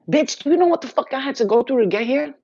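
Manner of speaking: fed up, put them in their place; indignant outburst. Real, not acted. Telling off dark energies.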